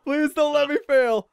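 nervous pleading again; anxious, heart pounding; adrenaline shakes. Real, not acted. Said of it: "My heart is racing right now".

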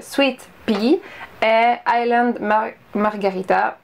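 product names read slowly in a playful English accent; self-mocking English accent. Shown as a demonstration. Vlogger joking about her English accent on product names, slow playful English accent. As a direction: show off an English accent on the brand names, tongue in cheek. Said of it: "Voilà mon super accent".

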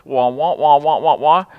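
mock trombone-like wah wah; Peanuts adult voice. Pastor mimicking Peanuts adults, muffled wah wah. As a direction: imitate the muffled grown-up in Peanuts. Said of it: "cartoon characters on the Peanuts cartoons".

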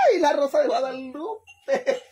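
high, slow cry of dismay; a hammed-up shocked exclamation; mock dismay. Real, not acted. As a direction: throw it up high like a telenovela gasp. Exclaims at the threat of dismissal.

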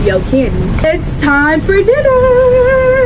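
mock announcement, drawn out, pitch climbing high on dinner; quoting a wise man. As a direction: sing out dinner like a big wise call. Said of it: "A wise man once said".

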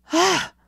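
short, high, loud gasp; sharp cry of alarm; startled gasp. Acted. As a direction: gasp as if suddenly grabbed. Boy grabbed by the shoulder.

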